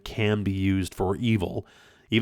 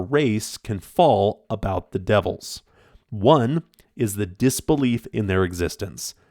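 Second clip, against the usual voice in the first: measured reading with deliberate pauses; formal, deliberate quote delivery. Acted. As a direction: read a weighty quotation aloud, phrase by phrase. Reads out a closing quote.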